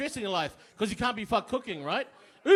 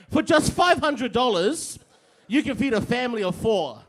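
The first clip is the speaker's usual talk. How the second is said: mock food reviewer; 4 dB louder than usual. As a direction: ham up a perky food blogger selling an overpriced dish. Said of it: "she's like".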